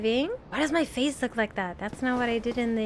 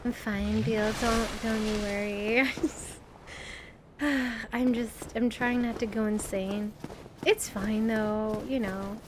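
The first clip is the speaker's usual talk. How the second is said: self-soothing; 3 semitones lower, 5 dB quieter than usual. Real, not acted. Streamer reassuring chat she's fine, soft and low. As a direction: lower and softer, gently calming herself. Calming herself after panic.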